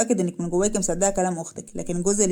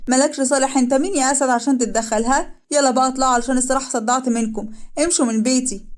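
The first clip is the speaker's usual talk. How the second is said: angry dismissal; 5 semitones higher than usual. Acted. Kazem throwing Kiara's family out, angry. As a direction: snap at them to get out of my house.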